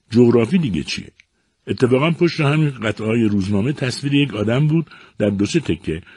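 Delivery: a hint of a chirpy child explaining; little boy. Little boy explains to his father.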